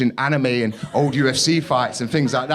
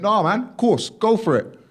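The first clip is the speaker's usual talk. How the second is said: much higher, easy-going reply; a lightly voiced relaxed gym lad; gym guy; 11 semitones higher than usual. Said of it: "He went".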